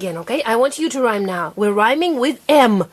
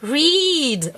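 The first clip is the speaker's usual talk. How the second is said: said as a word; 4 semitones higher than usual. Shown as a demonstration. Teacher confirming the sounded-out word, blended. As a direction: READ blended and higher.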